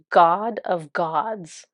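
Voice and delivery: very slow, grand self-title; mock-grand, stretched pronouncement; self-referencing boast. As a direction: draw it out like a self-styled deity. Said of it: "He's referencing himself".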